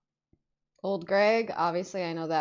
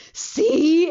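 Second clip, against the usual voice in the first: high, loud burst; exclaimed told-you-so; 8 semitones higher, 11 dB louder than usual. Retold or imitated. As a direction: blurt it out in triumph to a friend. Told-you-so to friend, retold.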